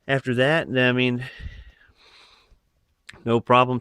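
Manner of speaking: breathless after rushing; panting between words; out of breath. Real, not acted. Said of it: "Sorry, I'm out of breath".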